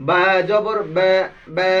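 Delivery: slow, drawn-out বা, mouth only slightly open; lightly open vowel. Shown as a demonstration. Teacher drills pupils, slow light fronted বা. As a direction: stretch বা as a light "bæ", not wide. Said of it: "খুব মুখ খুলবে না".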